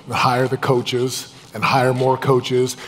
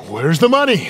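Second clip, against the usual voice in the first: mock demanding; 6 semitones higher, 4 dB louder than usual. Acted money quarrel with wife.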